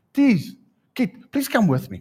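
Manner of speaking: high, put-upon plea; mock pleading. Preacher pretends to recruit Kit against the offender, mock pleading. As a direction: beg a friend for backup, playfully overdone. Acts out seeking a witness.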